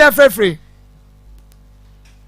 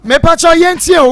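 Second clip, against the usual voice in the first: louder, pressing the caller to listen; host raising his voice so the caller hears; raised calling voice; 2 semitones higher, 4 dB louder than usual. Real, not acted. Host repeating his plea over a noisy line, louder.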